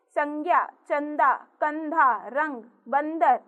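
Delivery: anusvara nasal sounded in each word; nasal anusvara examples. Shown as a demonstration. Teacher gives children example words, anusvara nasal sounded in each. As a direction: let each अं ring through the nose. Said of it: "इसका उच्चारण नाक से होता है".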